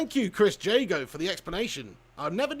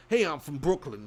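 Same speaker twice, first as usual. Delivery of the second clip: lower-pitched mock Brooklyn accent; 3 semitones lower than usual. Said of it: "Brooklyn accent".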